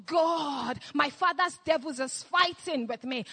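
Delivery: a desperate cry to God; mock tearful prayer. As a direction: pray as if broken down in tears. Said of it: "fall on your face and say".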